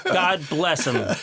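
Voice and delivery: slow, laughing fond blessing. Real, not acted. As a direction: chuckle it out slowly. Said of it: "repeated slower with laugh".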